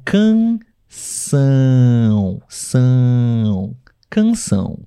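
CANÇÃO broken up, SÃO held long on a nasal vowel; nasal-sound demo. Shown as a demonstration. Teacher showing live viewers the nasal sound in canção, nasal demo. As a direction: draw out the nasal ending of canção. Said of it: "é um som nasal".

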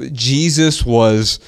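JESUS said slowly with weight; stress on JESUS. Shown as a demonstration. Dad explaining daughter's emphasis, "Jesus" slowly stressed. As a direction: lean on "Jesus" as if in italics. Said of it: "was italicized, uh, verbally".

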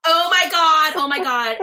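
high, loud "oh my God"; retold alarm. Labouring mother reacting to the soaked floor, retold alarm. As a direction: act out being overwhelmed, voice jumping up. Retold panic as waters gush out.

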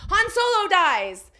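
retold yell. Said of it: "someone ran in and yelled".

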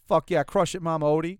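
loud cheering shout of encouragement; hyped cheer. Retold or imitated. Cheering on Mama Odie at the gumbo pot, loud and hyped. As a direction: fire up the cook with a yell. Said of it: "And I was like".

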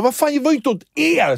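a mock shout of protest; retold yell back. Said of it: "så här börjar jag skrika".

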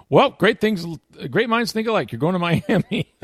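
high, hammed-up smug boss announcement; mock editor voice. Sports editor telling reporter about Miami, in a high mock-cheerful voice. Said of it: "he was like".

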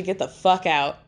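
understated mock scream at ordinary pitch; held-back imitation of a yell; retold scream. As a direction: quote a scream without raising the voice. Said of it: "she's screaming at Ashley".

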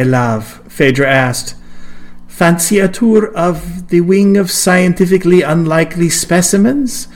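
a hint of an eager museum keeper; lightly voiced Phaedra. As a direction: gush lightly about the exhibits.

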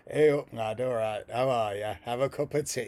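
lightly put-on Yorkshire mascot greeting; mock Yorkshire accent. Yorkshire mascot welcoming park guests, mock Yorkshire accent. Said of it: "the Yorkshire Techni Man".

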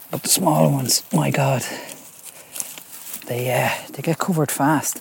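sniffly, stuffed-up nose from the cold; talking with a runny nose. Real, not acted. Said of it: "My nose is running".

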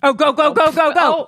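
high, rapid-fire excited urging. Real, not acted. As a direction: cheer them on urgently, pitched high. Urging photo of returned bird.

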